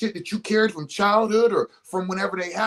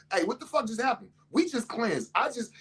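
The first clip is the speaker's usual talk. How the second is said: a hint of an outraged stomach, higher and quieter; 7 semitones higher, 3 dB quieter than usual. Stomach protesting the grease, mildly outraged voice. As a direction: play the stomach lightly shocked. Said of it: "my stomach was like".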